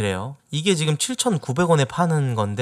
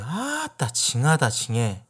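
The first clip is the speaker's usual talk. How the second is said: Jeolla dialect; slower than usual. Shown as a demonstration. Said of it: "누가 고집 부릴 때".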